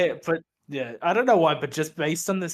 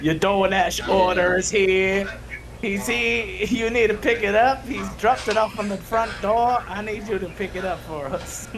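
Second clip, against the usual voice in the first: mock announcement; 4 semitones higher than usual. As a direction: announce it like an official call. Voicing a cop dispatch joke.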